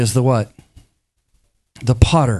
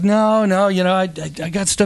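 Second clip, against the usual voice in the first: mock reluctant Jesus; 8 semitones higher than usual. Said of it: "he's like".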